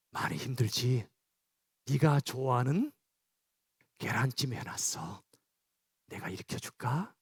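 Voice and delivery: a tender hushed wake-up whisper. Shown as a demonstration. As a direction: whisper gently to wake a tired child. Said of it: "귓속말을 조용히 해주세요".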